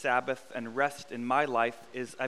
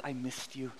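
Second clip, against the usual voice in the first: hushed but still voiced, playful pretend whisper; 8 dB quieter than usual. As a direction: say it softly, as if the couch confides. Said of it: "the couch whispers".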